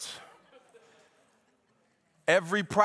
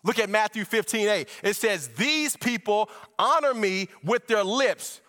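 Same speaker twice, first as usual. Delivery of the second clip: driving, raised preaching voice; fervent preaching; 7 semitones higher, 5 dB louder than usual. Acted. Preacher unfolding scripture to church, fervent preaching. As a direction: preach it with steady momentum.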